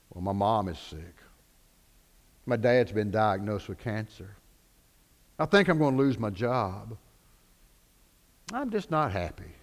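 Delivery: low, soft, subdued admission; mildly acted heaviness, voice kept low; downcast confiding. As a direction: confide bad news quietly. Troubled person confides bad news.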